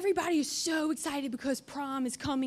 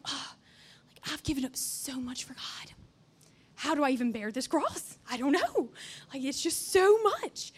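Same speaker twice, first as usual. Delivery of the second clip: mock self-pity; 2 semitones lower than usual. Self-pitying teen at home.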